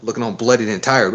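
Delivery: attempted Southern accent, lightly done; a hint of Southern in the questioning; shaky try at a Southern accent. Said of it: "This is a southern accent".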